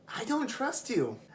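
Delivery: high, firm "I don't trust you"; blunt refusal. Retold or imitated. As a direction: say it flatly to her face. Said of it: "And I was just like".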